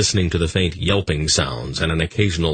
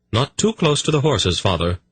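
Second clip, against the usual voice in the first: warning; 8 semitones higher than usual. Acted. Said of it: "Polgara warned".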